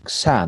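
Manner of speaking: "xa" said as "ksa"; Spanish X. Shown as a demonstration. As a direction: say the X of "xa" as K plus S. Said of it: "si digo en castellano".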